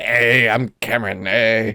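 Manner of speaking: low, dopey put-on voice; goofy impersonation. Showing a friend his favorite impersonation, low and dopey. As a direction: play a dim guy introducing himself. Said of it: "my favorite impersonation thing to do".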